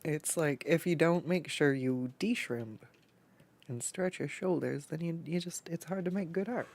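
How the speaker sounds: stuffy blocked nose, talking through congestion. Real, not acted. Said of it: "I can't breathe out of my nose right now".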